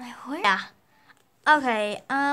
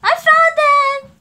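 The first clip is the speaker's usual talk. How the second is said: triumphant; 6 semitones higher, 10 dB louder, slower than usual. Pretend. Triumphant find.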